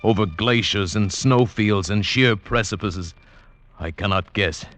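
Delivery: reflective storyteller voice; story narration. Acted. Nunez recounting his climb out of the valley, reflective. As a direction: tell it as a remembered journey.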